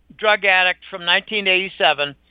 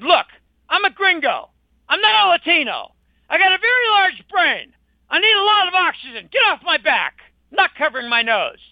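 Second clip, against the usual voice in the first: higher mock-defiant retort; retold raised voice; 5 semitones higher than usual. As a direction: pitch it up, as if telling the store cop off. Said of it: "I raised my voice and said".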